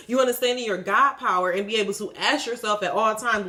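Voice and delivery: ordinary delivery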